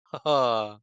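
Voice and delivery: imitated little lion laugh; Cowardly Lion laugh. Co-host imitates the film's Cowardly Lion impression, little lion laugh. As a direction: give a short mimicked lion chuckle. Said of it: "That little laugh the lion does".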